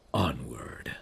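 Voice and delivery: a breathless whispered send-off; whispered farewell. Acted. Prince sending his friend off, whispered. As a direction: whisper it to push her on her way.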